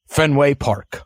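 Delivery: "Park" with a clearly sounded R; careful, exact diction on "Fenway Park"; absolute diction. Shown as a demonstration. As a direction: enunciate "Fenway Park" fully, R and all. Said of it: "with absolute diction".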